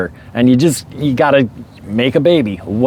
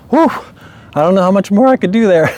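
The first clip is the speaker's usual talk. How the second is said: higher, fast, mock-exhausted husband; worn-out husband; 9 semitones higher, faster than usual. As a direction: rattle it off like he barely survived. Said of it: "husband's like".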